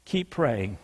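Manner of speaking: low, soft, drawn-out refrain. Real, not acted. Preacher closing each case with a soft low refrain. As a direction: drop the voice low and quiet on the refrain.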